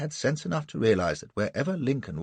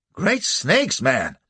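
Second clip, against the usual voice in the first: alarmed exclamation; 4 semitones higher, 4 dB louder, much slower than usual. A narrator's reading. Townsman reacts in alarm.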